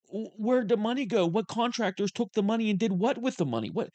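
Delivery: exasperated rant. Real, not acted. Host fuming at Newsom over the twenty billion, exasperated rant. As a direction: blow up over where the money went. Host ranting about wasted rail money.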